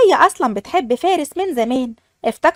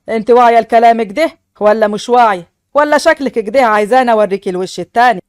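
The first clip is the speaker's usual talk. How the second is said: a lower, firmer man's voice for the husband; husband's voice; 5 semitones lower, 4 dB louder than usual. Acted. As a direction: speak as the stern new husband. Fares threatens his bride. (صوت الزوج الحازم بنبرة أخفض)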